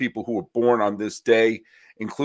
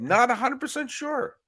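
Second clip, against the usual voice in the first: cool beatnik; 13 semitones higher than usual. Pretend. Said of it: "talking like a, a beatnik?".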